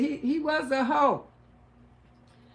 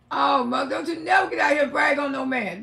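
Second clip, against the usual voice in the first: repeating mama's rule, cracking up; laughing retelling; faster than usual. Retold or imitated. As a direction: rattle off mama's warning through laughter. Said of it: "My mama said".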